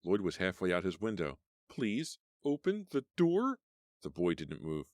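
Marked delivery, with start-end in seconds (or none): 1.7-3.6 much higher and louder, pleading; high loud plea to the driver; desperate plea. Acted. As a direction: beg him as the killer gets out. Begging driver, killer escaping.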